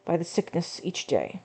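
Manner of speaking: lightly voiced weary old man; tired grandpa voice. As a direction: read it like a grandpa who's over it. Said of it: "this goes along with the whole grandpa thing".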